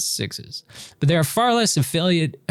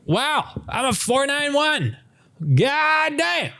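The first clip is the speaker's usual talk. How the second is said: much higher amazed exclamation; high astonished; 12 semitones higher, slower than usual. Real, not acted. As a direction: gasp it out in disbelief. Astonished at her result.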